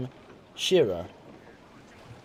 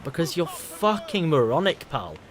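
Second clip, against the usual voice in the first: drawn-out, higher-pitched exasperated retort; exasperated insult; 4 semitones higher than usual. Real, not acted. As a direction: stretch out the insult, fed up with them. Insulting retort to a chat message.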